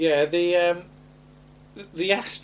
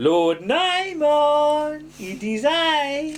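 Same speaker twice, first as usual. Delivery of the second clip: put-on high, very slow Mexican-sounding accent. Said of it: "I'm sorry if it sounds Mexican".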